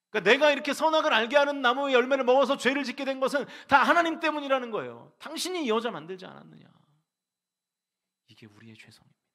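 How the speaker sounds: ordinary talk, nothing marked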